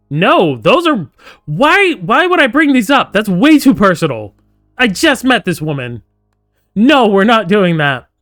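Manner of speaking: loud, high, incredulous refusal; indignant protest. Real, not acted. Player balks at asking a stranger personal questions, indignant. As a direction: balk at it, voice jumping up high.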